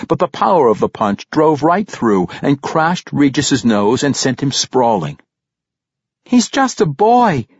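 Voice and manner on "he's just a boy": high, slow, louder cry for mercy; yelled plea. A narrator's reading. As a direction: yell it to stop the fight, drawn out. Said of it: "the elf girl yelled".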